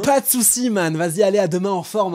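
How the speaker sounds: high, breezy goodbye; see him off a little too brightly; mock cheery send-off. Colleagues waving off the early leaver, falsely cheery.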